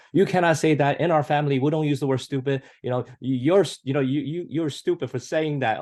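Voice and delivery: high, stern scolding parent; mock lecture, pitched high; scolding first-generation parent. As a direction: scold the kid like a strict immigrant dad. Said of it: "A typical first generation response is".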